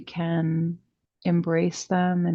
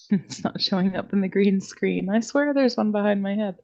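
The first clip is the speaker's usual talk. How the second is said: amused aside; faster than usual. Real, not acted. Amused aside about green screen glitch.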